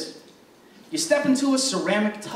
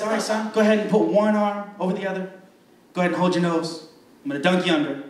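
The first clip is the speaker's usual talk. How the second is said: lower, calm mock pastor; a hint of a pastor guiding the boy; pastor giving instructions; 5 semitones lower, faster than usual. Pastor telling the boy to hold his nose, lower and calm.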